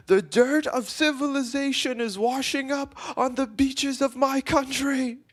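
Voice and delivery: sustained very high-pitched declamation; imitated meltdown. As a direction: rant grandly like an outraged local. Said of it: "having a fucking meltdown".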